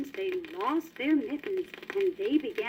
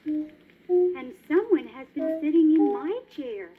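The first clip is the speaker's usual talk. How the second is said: middle-sized voice; 4 dB louder than usual. Acted. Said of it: "said Mother Bear in a middle-sized voice".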